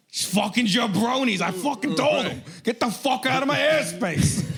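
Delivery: high, mock-furious hick rant; hammed-up redneck telling off aliens; a redneck yelling at UFOs; angry yokel.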